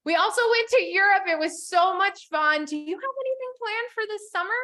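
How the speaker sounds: bubbly, bright up-tone demo message; upbeat sample message, then a question; excited demo. Shown as a demonstration. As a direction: sound thrilled about the trip. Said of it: "you sandwich it".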